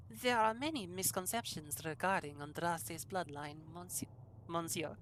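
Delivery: badly faked French accent; terrible French accent. Player voices a lore scholar addressing monsieur, terrible French accent. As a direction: attempt a hammy French accent. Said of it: "can I do a very terrible French accent".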